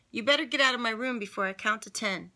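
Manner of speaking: big sister ordering her sibling out; loud threat. Acted. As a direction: threaten the pest out of the room.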